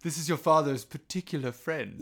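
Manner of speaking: hammed-up euphemistic introduction; insinuating introduction. Mocking a mother's introduction of a friend, insinuating.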